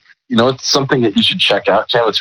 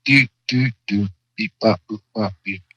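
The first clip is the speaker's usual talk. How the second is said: toy robot voice; 5 dB quieter than usual. Shown as a demonstration. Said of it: "last sound effect".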